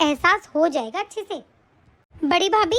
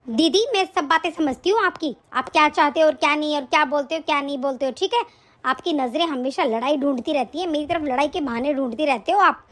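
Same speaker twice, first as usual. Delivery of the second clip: lower, sharp, annoyed sister-in-law; quarrelling sister-in-law; 6 semitones lower than usual. Acted. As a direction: fight back against the elder sister-in-law. Younger bhabhi argues with elder.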